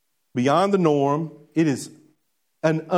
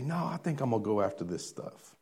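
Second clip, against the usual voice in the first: worldly choice; 4 semitones lower, 12 dB quieter than usual. Retold or imitated.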